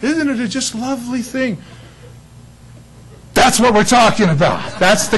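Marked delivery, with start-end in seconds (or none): 0.0-1.6 higher, lightly cooing parent voice; imitating a smitten new parent; doting parent. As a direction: coo over the baby in mock adoration. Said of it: "But the parents are just like".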